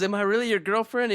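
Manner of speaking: high, quick mock girly voice; girlfriend. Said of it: "She goes".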